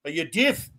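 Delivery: lightly imitated Irish, deaf as "deef"; mock Irish question, long ee in deaf; old-country Irish. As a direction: ask it with a hint of old Irish brogue. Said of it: "That's how they say it in the old Irish old country".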